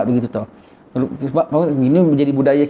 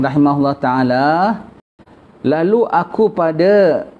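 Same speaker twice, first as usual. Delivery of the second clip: slightly raised, measured recitation of a religious text; kitab reading. Acted. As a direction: read the kitab passage formally. Reads kitab text aloud. (bacaan kitab yang teratur)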